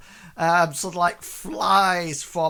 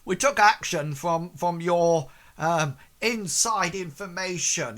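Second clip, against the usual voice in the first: raised, louder guard voice; guard calling back; 3 semitones higher, 7 dB louder than usual. Acted. Guard tells Bartleby about the tip-off, loud and raised. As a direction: call it out publicly across the crowd. Acted guard answers loudly over crowd.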